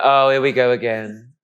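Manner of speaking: slow, mock-exasperated groan of complaint; weary mum. Mum reacting to son getting lost, wearily exasperated. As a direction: drag it out in resignation. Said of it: "Mum will be like".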